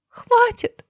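very high, loud thin scream; girl screaming to stop talk of death. Acted. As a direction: shriek it, covering the ears. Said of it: "тоненько закричала Дина".

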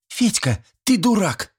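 high scolding schoolgirl; girl scolding. A narrator's reading. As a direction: snap at him like a girl.

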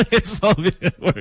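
laughing through the words; giddy laugh of relief as the words come out; laughing with joy. Real, not acted. Host laughing over the fixed delay, overjoyed.

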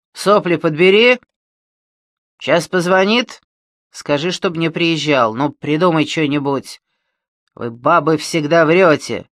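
громкий злой медленный окрик; рявкнуть с угрозой. Acted. Колян орёт на Маню. (злобно орёт)

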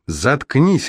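high, sharp angry bark; barked shut up. A narrator's reading. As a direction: snap at him to shut up. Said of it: "рявкнула Лона". (высокий резкий гневный окрик)

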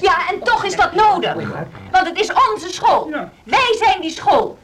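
rally the room around this claim; passionate insistence. Acted. Passionate plea in meeting.

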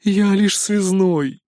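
very slow, innocent cat; a cat spreading empty paws; shrugging cat. Acted. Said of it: "развёл кот пустые лапы". (очень медленно, невинно)

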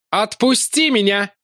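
Larry demanding to be put down; furious yell. A narrator's reading. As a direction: bark it at the monster. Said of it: "орал гневно и яростно".

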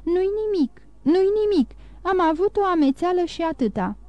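lifted voice, brushing off the worry; reassuring. A narrator's reading. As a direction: soothe the worried grandfather. Granddaughter reassuring her worried grandfather.

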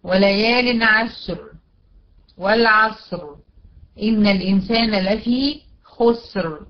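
slow recitation, عشر and خسر ending on vowelless R; recite, closing والعصر on a bare R; measured verses, each stopped on the final R; stopping on still ra. Shown as a demonstration. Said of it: "وقفت عليها بالسكون".

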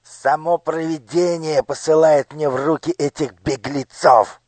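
a villain who has caught his prey; triumphant. Acted. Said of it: "торжествующе сказал Нушрок". (торжествующе)

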